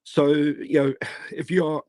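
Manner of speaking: losing voice, hoarse. Real, not acted. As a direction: speak with a hoarse, fading voice. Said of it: "I'm losing my voice here".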